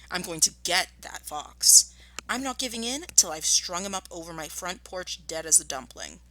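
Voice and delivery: angry threat, whispered; menacing whisper. Acted. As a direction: hiss the threat under the breath. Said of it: "he said angrily".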